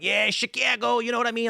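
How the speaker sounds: high-pitched, exaggerated Chicago accent; joke Chicago accent. Chicagoan joking with strangers, exaggerated Chicago accent. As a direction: ham up the Chicago accent as a gag. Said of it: "Like, as a joke".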